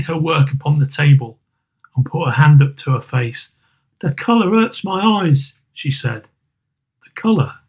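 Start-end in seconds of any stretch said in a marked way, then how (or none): 4.0-5.5 higher, tired voice of a grieving mother; weary mother. Acted. 7.0-7.6 higher, tired voice of a grieving mother; weary mother. Acted. Mother echoes.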